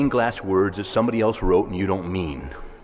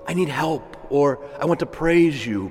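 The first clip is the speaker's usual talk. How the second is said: crying out to God; 4 semitones higher than usual. Retold or imitated. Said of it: "to cry out".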